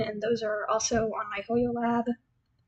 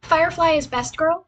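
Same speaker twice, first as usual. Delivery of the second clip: excited declaration; 4 semitones higher, 4 dB louder than usual. Real, not acted. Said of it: "I'm just gonna put that out there".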